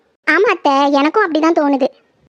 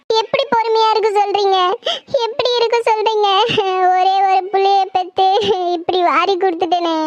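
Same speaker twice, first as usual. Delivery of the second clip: grieving wail; 2 semitones higher than usual. Acted. Grieving mother wails for son.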